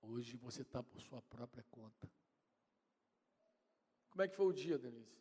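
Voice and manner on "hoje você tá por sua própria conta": low, hushed, slow pronouncement; quiet, measured voice from above; voice of God. Retold or imitated. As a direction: say it softly and slowly, deep in the voice. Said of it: "acordei com aquela voz falando assim".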